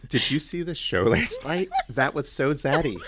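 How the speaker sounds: laughing, playing at teen slang; ironic zoomer. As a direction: try the slang on with a grin. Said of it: "I want you to use it in sentences like that".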